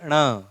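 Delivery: ण as retroflex 'ṇa'; retroflex pronunciation. Shown as a demonstration. Teacher shows how it is pronounced, ण as retroflex nasal. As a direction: curl the tongue back and flap it for ण. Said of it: "इसका उच्चारण क्या है?".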